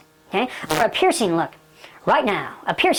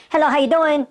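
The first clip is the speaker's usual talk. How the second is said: mild New York accent; 4 semitones higher than usual. Shown as a demonstration. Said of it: "a New York accent when they say".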